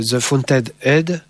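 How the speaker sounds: English title in a French accent; slow, French-accented English; self-mocked English accent. Real, not acted. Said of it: "avec mon super accent".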